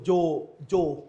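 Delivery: "জো" said with a rounded o; teacher isolating the o in "জো"; o-sound demo. Shown as a demonstration. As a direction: sound out "জো" as a closed o, twice. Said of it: "ও এর মতো হয়ে গেছে".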